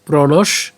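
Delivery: প্রণশ by itself, closing on "sh"; broken-up pronunciation. Shown as a demonstration. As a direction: stop after প্রণশ as the first half of the word. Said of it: "এটাকে ভেঙে উচ্চারণ করি".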